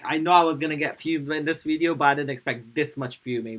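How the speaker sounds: worked up, loud at the start then easing; genuinely riled up; fuming. Real, not acted. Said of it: "I'm actually, like, fuming".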